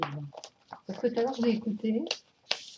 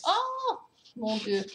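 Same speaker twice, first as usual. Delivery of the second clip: retold shocked cry. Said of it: "j'ai crié au secours".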